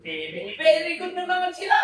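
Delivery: a mock pat on the head; mock praise. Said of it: "ang tawag sa'yo ay". (panunuksong papuri)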